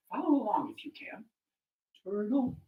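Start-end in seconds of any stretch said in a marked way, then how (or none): 2.0-2.6 loud, deliberate, drawn-out words; slow motto. Acted. Mother advises Turtle, slow and emphatic. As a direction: spell out the lesson for a group to repeat. Mother's slogan for audience repetition.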